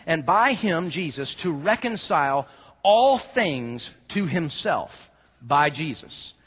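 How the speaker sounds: slow, measured reading of the verse; scripture reading. Acted. Preacher reads Colossians to the congregation, slow and reverent. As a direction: read each phrase slowly and reverently.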